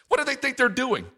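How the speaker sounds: high sneering taunts; mocking ridicule. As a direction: scoff like a scornful enemy. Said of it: "It will come in such forms as this".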